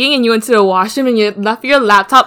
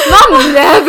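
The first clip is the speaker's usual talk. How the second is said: mock innocent; 4 semitones higher, 6 dB louder, slower than usual.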